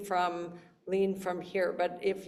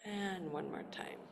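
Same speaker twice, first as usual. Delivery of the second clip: soft unvoiced breathwork cue; whispering; 14 dB quieter than usual. Shown as a demonstration. Whispered cue during exercise.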